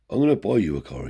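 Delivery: grandfather's voice. Retold or imitated. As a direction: announce the gift grandly. Grandfather makes generous promise.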